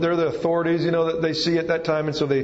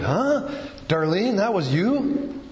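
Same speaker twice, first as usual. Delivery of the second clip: high, stunned double take on Huh; a friend who can't believe it's really her; amazed disbelief; 5 semitones higher, slower than usual. Retold or imitated. People amazed at her change.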